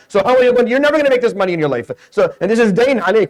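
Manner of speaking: high, incredulous mini-rant; mock exasperation. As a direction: press the point in worked-up disbelief. Mock tirade continues.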